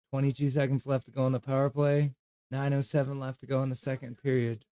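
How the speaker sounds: announcer calling the clock; play-by-play. Acted. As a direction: count down the power play like an announcer. Live hockey play-by-play.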